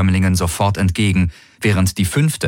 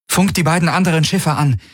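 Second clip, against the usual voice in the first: commanding; 8 semitones higher than usual. A narrator's reading. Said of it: "befahl sie der Vago".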